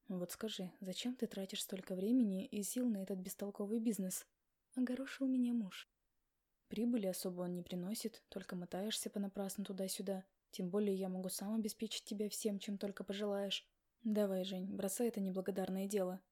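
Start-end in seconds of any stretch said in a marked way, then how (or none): 0.1-4.3 lightly lowered husband, disapproving; a husband pushing his wife to quit; husband's voice. Acted. 6.7-16.2 lightly lowered husband, disapproving; a husband pushing his wife to quit; husband's voice. Acted.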